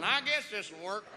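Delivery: slow, underwhelmed and casual; playing it cool. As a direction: shrug it off like it's nothing special. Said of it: "But on the outside".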